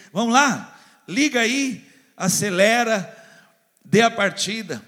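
high loud start-the-engine urging; mock rallying. Preacher urging the church to start up, loud and high. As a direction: cheer the engine to life.

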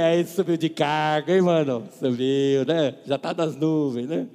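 put-on loud teasing of an old friend who got a fancy title; loud mock teasing. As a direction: rib him loudly about his promotion.

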